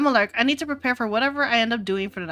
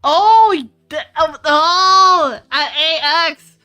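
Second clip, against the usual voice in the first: distracted; 4 semitones higher, 11 dB louder, slower than usual. Real, not acted. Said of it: "Sorry, I got distracted".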